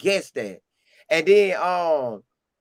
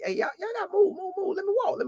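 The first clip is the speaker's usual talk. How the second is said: much higher, softer mock voice of the coach pushing through; mock Coach Prime; 5 dB quieter, faster than usual. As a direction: squeak out the coach clearing a path, playful. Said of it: "He like".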